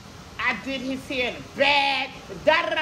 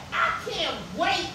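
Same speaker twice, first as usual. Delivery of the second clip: mock demanding customer; 2 semitones higher than usual. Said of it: "This nigga said".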